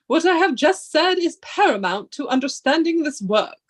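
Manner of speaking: measured, solemn lecturing read; professor voice. Acted. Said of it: "do you like my professor, um, voice?".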